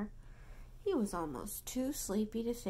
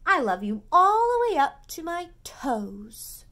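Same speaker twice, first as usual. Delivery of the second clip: higher, loud playful bunny; little bunny voice; 7 semitones higher, 11 dB louder than usual. Acted. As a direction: bounce it out like a small bunny. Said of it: "he said".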